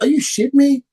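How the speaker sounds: mock-outraged "are you kidding me"; incredulous outburst. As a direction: fire it back in disbelief. Outraged retort to critics.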